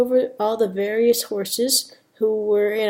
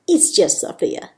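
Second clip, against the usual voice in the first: lightly put-on Spanish accent; a touch of Spanish accent; 3 dB louder than usual. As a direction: correct someone with a mild Spanish accent. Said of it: "Sophia's got a bit of a Spanish accent".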